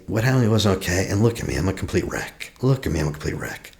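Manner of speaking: quick, self-pitying run of words; falling apart. Shown as a demonstration. Coach mimics the wounded victim, hurried and defeated. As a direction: rush it out like a helpless wreck. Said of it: "would you just say".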